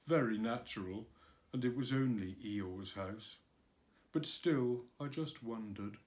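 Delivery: lightly voiced melancholy donkey. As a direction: sigh it out, mildly mournful. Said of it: "in his most melancholy voice".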